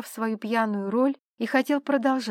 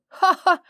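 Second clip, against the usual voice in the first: loud high burst of "Ха-ха!", louder and higher; hearty laugh; 8 semitones higher, 7 dB louder than usual. Acted. Граф смеётся над другом. (громкий высокий смех «Ха-ха!»)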